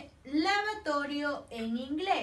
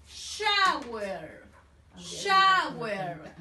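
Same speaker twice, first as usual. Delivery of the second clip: shower drawn out and a little louder, falling; model word for repeating; 4 semitones lower, 3 dB louder, much slower than usual. Shown as a demonstration. Teacher repeats shower for pupils to copy. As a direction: drill shower for the class. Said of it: "Come on, repeat".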